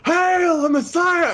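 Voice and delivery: high, drawn-out mock acclamation; high-pitched crowd chant, stretched out; crowd of followers. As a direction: hail him in a slow falsetto cry. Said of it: "there's his entire following that he's unwittingly gathered".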